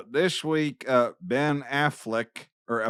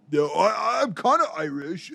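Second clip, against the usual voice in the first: Nathan; 3 semitones higher than usual. Retold or imitated. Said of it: "Nathan's got his fucking little".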